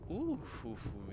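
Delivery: startled gasp, then relief; scared horror game streamer. Real, not acted. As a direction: jump at the scare, then breathe out. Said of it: "il m'a fait peur".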